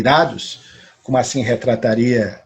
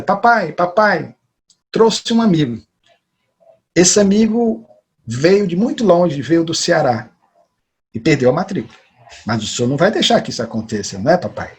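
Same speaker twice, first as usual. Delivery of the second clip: put-on girl calling to father; 3 semitones higher than usual. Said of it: "E a menina grita".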